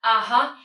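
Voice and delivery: UH-HUH long, going down then up; full third tone. Shown as a demonstration. Teacher shows the not-always-used full tone, long dipping UH-HUH. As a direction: draw UH-HUH down and back up. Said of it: "But the third tone".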